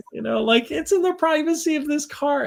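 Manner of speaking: mock incredulous. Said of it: "I'm like".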